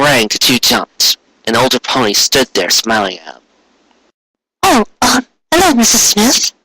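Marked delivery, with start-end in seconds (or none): 4.6-6.5 put-on a shy, hopeful young mare; Cupcake's voice. Cupcake greets customer.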